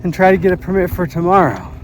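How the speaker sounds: loud over the rotor noise; yelling over helicopter. Real, not acted. Helicopter noise overhead, talking loud.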